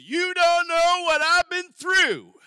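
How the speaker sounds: mock-indignant how dare you; defensive retort. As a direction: bristle like someone caught out. Offended listener snaps back defensively.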